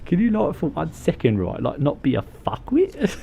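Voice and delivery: odd character voice; funny put-on voice. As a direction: say it in a silly put-on voice. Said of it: "that's not a good voice".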